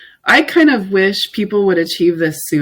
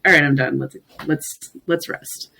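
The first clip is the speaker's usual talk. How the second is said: relaxed, softening sign-off; calm, chill; 3 semitones lower, 3 dB quieter than usual. Retold or imitated. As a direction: wind down softly at day's end. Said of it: "we do it in this very calm, very chill".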